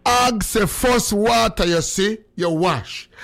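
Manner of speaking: slow, measured repeat, dropping at the end; repeat on request. Shown as a demonstration. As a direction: spell out the saying slowly without the outburst. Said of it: "Repeat it again".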